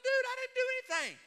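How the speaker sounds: indignant yell. Retold or imitated. Retold road rage, protesting driver.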